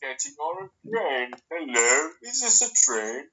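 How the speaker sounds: lightly mocked American attempt at a British accent; American doing British. Asked by co-host for an impression, mock American doing British accent. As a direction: play an American badly faking a British accent. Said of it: "Can you do an impression of an American person?".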